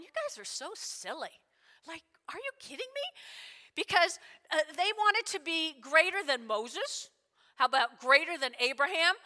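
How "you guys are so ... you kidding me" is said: soft, teasing disbelief jumping high at the end; incredulous aside. Acted. Preacher reacting to the ambitious brothers, softly incredulous. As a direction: scold them gently under your breath. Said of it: "I'm going".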